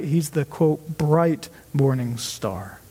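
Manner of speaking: "bright" drawn out slowly, then falling low; stress on bright. Retold or imitated. Preacher quoting Jesus's title, with slow emphasis on "bright". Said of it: "you can see that emphasis".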